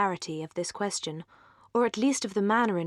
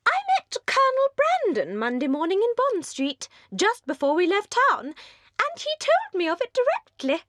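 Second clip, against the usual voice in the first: very high, louder, breathless society chatter; giddy young lady; 12 semitones higher, 4 dB louder than usual. Acted. Mrs Palmer gushes at the Dashwood sisters, very high and giddy. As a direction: gush like a merry, empty-headed hostess.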